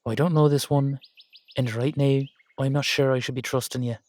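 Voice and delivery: Irish-sounding put-on accent; wary line in an Irish lilt. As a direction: keep up the Irish-style brogue. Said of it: "have to do this in the accent".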